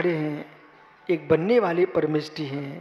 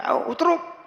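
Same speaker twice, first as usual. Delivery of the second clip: mock pushy devotee; 12 semitones higher, slower than usual.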